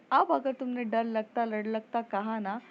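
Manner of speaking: a touch of an exasperated mother's yell; mother scolding her daughter through the door, mildly shouting. Acted. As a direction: threaten her like a fed-up mom, half-shouted. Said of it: "उसकी mummy चिल्ला के बोलती".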